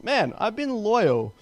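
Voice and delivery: emphasizing donkey. Retold or imitated. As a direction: stretch it out to make the point. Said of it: "The donkey kinda emphasizes".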